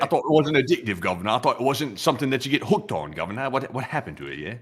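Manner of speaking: lightly done British marmot voice; botched British accent. Pretend. Marmot explains car fees to the host, rough British accent. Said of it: "with this accent tonight".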